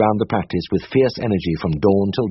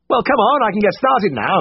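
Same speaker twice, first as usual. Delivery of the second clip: higher brisk voice for Siegfried; Siegfried's voice, higher and brisk; 13 semitones higher than usual. A narrator's reading. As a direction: voice the brisk senior vet. Siegfried's voice held in reading.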